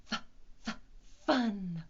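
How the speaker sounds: F, f- breathed out as a long hissed f before fun; letter sound demo. Shown as a demonstration. Teacher showing the F sound, stretched f- before fun. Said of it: "Kinda sounds like this".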